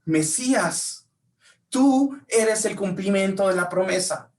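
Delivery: slow, high, solemn declaring; reverent proclamation. Retold or imitated. Bartimeo declares who Jesus truly is, slow and reverent. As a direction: proclaim each title with awe. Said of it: "Lo que Bartimeo decía".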